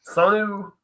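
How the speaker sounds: "Sonu" tried out as SAHN-yoo, questioning; hesitant stab at "Sonu" as SAHN-yoo; unsure pronunciation. Real, not acted. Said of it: "don't even know how the fuck you pronounce that".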